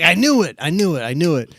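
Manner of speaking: high, loud gotcha, easing with each repeat; mock triumphant outburst. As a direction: imitate someone crowing at being proved right. Retold man pounces on her answer.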